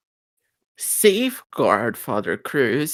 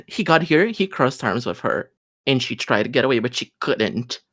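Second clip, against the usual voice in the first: ordinary delivery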